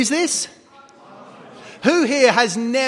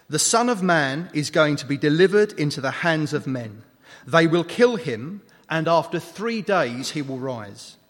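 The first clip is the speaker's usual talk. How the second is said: measured scripture reading; 4 semitones lower than usual. A narrator's reading. Reads scripture aloud.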